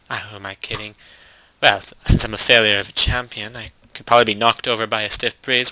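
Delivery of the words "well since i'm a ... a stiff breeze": grand storyteller tone; narrator voice. Acted. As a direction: read it like an epic narrator. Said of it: "using my narrator voice in my normal discussion".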